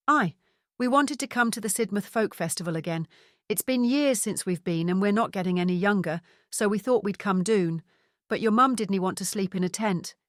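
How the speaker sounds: chatty Scottish father, broad vowels; Scottish accent. Acted. Father explains the surprise visit to his son, Scottish accent. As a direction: tell it like a cheerful Scot. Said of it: "in his strong Scottish accent".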